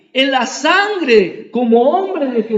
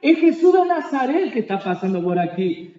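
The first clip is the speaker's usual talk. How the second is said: crowd calling out. Retold or imitated. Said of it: "la multitud decía".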